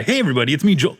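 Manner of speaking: hammed-up DJ greeting; radio host voice. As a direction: announce it like on air. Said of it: "No, I'm just kidding".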